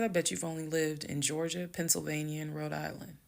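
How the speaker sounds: composed accusation, softening toward the end; calm, just stating. Retold or imitated. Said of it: "I'm very calm".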